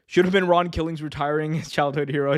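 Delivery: ordinary talk, nothing marked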